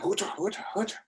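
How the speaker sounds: high, quick hooting war cry; yelping pirate charge call; battle cry. Acted. Battle cry as they jump.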